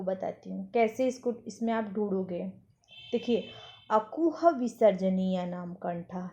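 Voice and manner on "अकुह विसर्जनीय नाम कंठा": अकुह विसर्जनीय नाम कंठा spelled out slowly, syllable by syllable; slow, careful recitation of अकुह विसर्जनीय नाम कंठा; slow sutra recital. Shown as a demonstration. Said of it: "सबसे पहला क्या है?".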